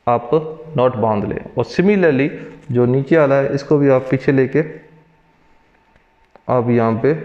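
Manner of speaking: muffled by mask fabric; through a face mask. Real, not acted. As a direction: mouth covered while speaking. Seen 1: Speaker wears a surgical mask over nose and mouth throughout.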